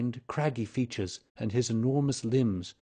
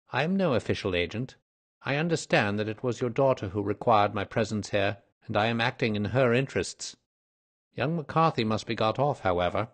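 businesslike detective. Acted. Detective reassuring the old man, lightly voiced, firm. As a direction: state your position briskly and firmly.

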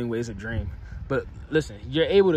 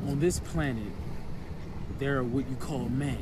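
lordly figure; 11 dB quieter than usual. Pretend. Lord explaining gods and men to a peasant, quietly lordly.

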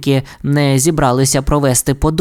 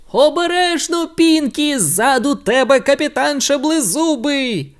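much higher, frantic cry; urgent warning; 10 semitones higher than usual. A narrator's reading. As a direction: warn the hero from the seats. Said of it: "закричав". (тривожний крик)

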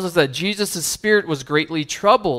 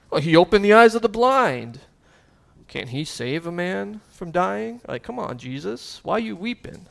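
mild mockery; 4 semitones higher than usual. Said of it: "some Jews who saw him weeping mocked".

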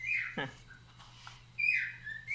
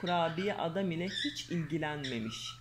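lively storybook reading voice; reading to children. Acted. Mother reading a fairy tale to her daughter, lively storyteller. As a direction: read the tale aloud to a little girl.

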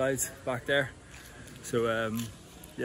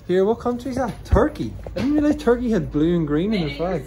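loud and higher, shouting a question across; calling out; 7 semitones higher, 11 dB louder than usual. Real, not acted. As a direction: shout it cheerfully over the gap. Calling across to another balcony.

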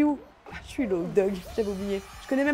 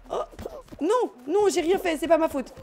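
mock protest; 5 semitones higher, 3 dB louder than usual. Protesting in the game.

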